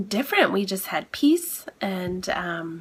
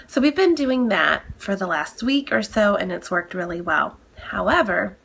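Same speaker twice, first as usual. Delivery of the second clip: nasal voice. Real, not acted. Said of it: "I'm sure you can hear by my nasally, um, voice".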